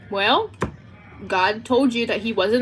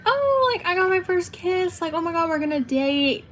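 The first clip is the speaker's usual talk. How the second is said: much higher, swooning schoolgirl gush; a hammed-up squeal over a first kiss; mock giddy excitement; 8 semitones higher than usual. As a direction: act out your younger self, starstruck. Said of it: "I was like".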